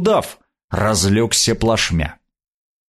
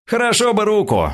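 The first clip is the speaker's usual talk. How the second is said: dreamy; 11 semitones higher than usual. A narrator's reading. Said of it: "сказал его напарник мечтательно".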